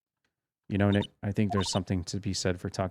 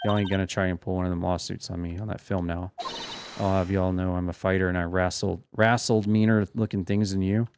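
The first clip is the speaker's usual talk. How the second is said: a hint of a cranky Southern woman's drawl. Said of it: "southern folks talk with that exaggerated drawl".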